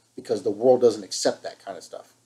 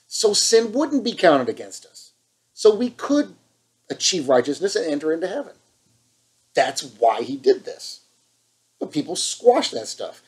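fired up; 3 semitones higher than usual. Real, not acted. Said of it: "Sorry, I'm fired up".

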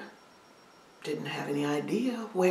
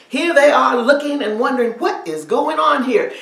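louder, urgent narration; loud telling; 2 semitones higher, 11 dB louder than usual. A narrator's reading. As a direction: build the alarm. Overseers shocked, shouting.

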